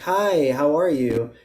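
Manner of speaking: smooth, blended, connected words; legato. Shown as a demonstration. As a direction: run the words together smoothly. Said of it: "legato would be more like blending".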